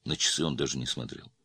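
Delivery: usual speaking voice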